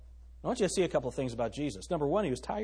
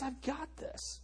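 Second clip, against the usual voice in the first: mock reassurance; 10 semitones higher, 13 dB quieter, slower than usual. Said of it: "And he says".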